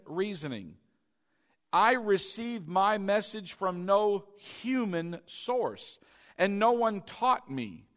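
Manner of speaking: slow, emphatic preacher reading; scripture reading. Acted. Preacher reading Paul's letter to the congregation, slow and emphatic. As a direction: proclaim each phrase deliberately.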